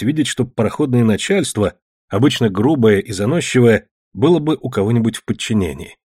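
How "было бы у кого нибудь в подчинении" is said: ordinary delivery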